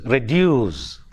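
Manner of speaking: "reduce" with a weak "re" and strong "duce"; reduce, drawn-out stressed "duce"; stress on second syllable. Shown as a demonstration. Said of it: "The stress falls on dues".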